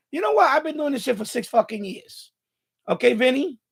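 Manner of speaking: angry outburst. Real, not acted. Streamer ranting at commenter Vinny.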